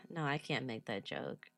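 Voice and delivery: ordinary talk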